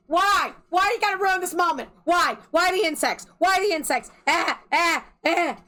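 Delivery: high, loud mock wail; anguished protest. Reader protesting the insects ruining the moment, loud mock anguish. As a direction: whine it loudly like a hammed-up tantrum.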